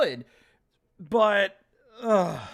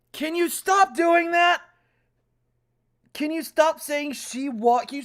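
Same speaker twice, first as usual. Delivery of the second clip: exasperated raised question; irritated; 5 semitones higher, 3 dB louder than usual. Real, not acted. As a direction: snap the question, fed up. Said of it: "I'm already getting so angry".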